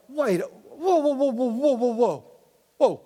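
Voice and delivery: high-pitched string of mock whoas; acted alarmed disbelief; startled. David's startled reaction, acted.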